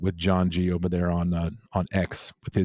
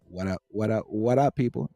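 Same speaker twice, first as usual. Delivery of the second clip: chat greeting read aloud. Retold or imitated. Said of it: "that's exactly how I say it in my head".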